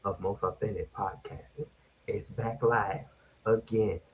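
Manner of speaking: whispering. Acted. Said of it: "why you whispering like we in the nineteen seventies".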